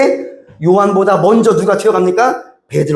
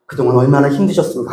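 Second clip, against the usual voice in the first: empathetic; 4 semitones lower, faster than usual. Shown as a demonstration. Pastor comforting a struggling believer, sympathetic. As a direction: gently share their hurt. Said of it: "공감을 해주는 거예요".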